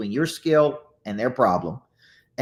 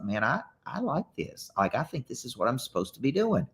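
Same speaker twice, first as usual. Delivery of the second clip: much softer recalled inner thought; hushed realization; 7 dB quieter than usual. Retold or imitated. Coach recalling his first book talks, hushed realization. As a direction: drop the volume, musing to yourself. Voicing own past thought.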